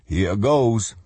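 put-on a bracing young boy. A narrator's reading. Josh braces himself.

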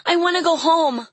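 put-on high, loud child's plea; crying out. A narrator's reading. Caged girl wants home, crying out. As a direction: plead like a desperate little girl, pitched high. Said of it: "she cried".

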